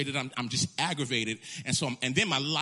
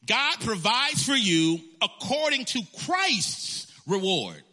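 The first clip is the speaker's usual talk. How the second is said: higher, louder, slow preaching cry; building preacher shout; 7 semitones higher, 5 dB louder, slower than usual. Acted. Preaching to the congregation, rising to a shout. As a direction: lift it to a climax. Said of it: "repeated louder".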